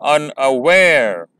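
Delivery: slow unaware, with the weight on ware; un-a-WARE, the third syllable strong; stress on the last syllable. Shown as a demonstration. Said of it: "पहले दो syllables unstressed हैं और तीसरा syllable stressed".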